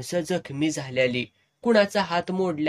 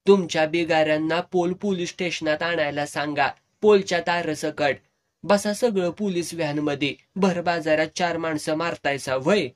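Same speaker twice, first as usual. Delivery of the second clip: angry policeman; 4 dB louder than usual. Retold or imitated. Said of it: "माझ्यावरच खेक असला".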